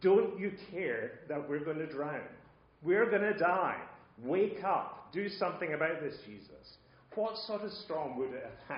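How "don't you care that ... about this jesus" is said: pitched-up panicked plea, not truly shouted; half-voiced imitation of frightened yelling; mock yelling. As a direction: plead urgently, like a sailor about to drown. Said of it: "yelling at Jesus".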